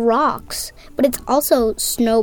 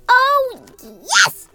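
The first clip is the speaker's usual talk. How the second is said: high, bright "oh, yes"; eager exclamation; 10 semitones higher, 4 dB louder than usual. Acted. Little Bird answering Lily about tomorrow, eager. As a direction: jump at the chance. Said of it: "Little Bird exclaimed".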